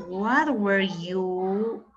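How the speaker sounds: very slow, carefully spaced English question; slow classroom English demo; slow model sentence. Shown as a demonstration. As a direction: lay out each word for the class. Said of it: "Qué más podríamos decir".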